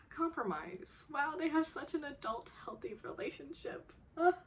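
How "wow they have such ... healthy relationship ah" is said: admiring. Real, not acted. Fan admiring the couple.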